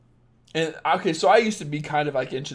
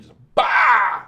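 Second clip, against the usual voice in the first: sudden loud blurt for a slap, much louder; mock spank shout; 7 semitones higher, 10 dB louder than usual. Host acts out the spank a weak man can't give, loud burst. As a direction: bark it out like a hand landing hard.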